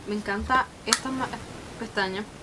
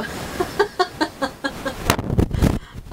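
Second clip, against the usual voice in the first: breathy giddy laughter; real happy laugh; delighted laugh; 5 semitones higher, 4 dB louder than usual. Real, not acted. Delighted by result.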